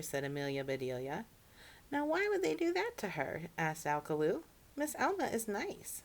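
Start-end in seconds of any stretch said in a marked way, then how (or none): 1.9-3.5 puzzled cousin. Acted. Alcaloo puzzled question. 4.8-6.0 earnest protest. Acted. Alcaloo defends Miss Alma.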